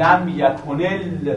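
"لم یکن ال-" halted on the ل; demonstrated pronunciation. Shown as a demonstration. Teacher showing students the silent lam, demonstrated "لم یکن ال-" held on ل. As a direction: stop on a held, vowelless ل in "لم یکن ال-". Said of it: "شما وقتی میگید".

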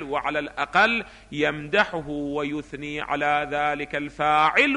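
measured reading, stretching phrase endings; textbook reading. Acted. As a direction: read the passage out slowly and deliberately. Reads the textbook aloud. (قراءة متن بتمهل ومدّ أواخر العبارات)

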